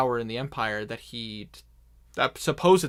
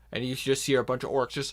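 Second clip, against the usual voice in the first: normal talking voice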